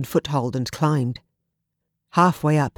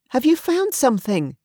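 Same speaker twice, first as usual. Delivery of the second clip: calling; 9 semitones higher than usual. Acted. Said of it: "Olivia called".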